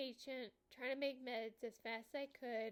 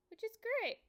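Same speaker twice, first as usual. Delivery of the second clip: sarcastic; 10 semitones higher, 8 dB louder than usual. Real, not acted. Joking about walking drunk.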